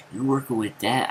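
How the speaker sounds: teasing challenge, voice lifting at the end; mocking taunt. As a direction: needle him about his bicep. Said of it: "I said something like".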